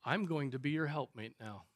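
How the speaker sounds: low, soft, controlled reply; perfectly calm. Retold or imitated. Wife answering her angry husband, perfectly calm. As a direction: answer quietly, fully in control of yourself. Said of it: "Perfectly calm, perfectly controlled".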